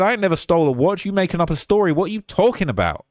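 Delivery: imitating a defendant's indignant protest; indignant denial. Retelling a defendant denying a stolen watch, indignant. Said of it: "That's how he said it".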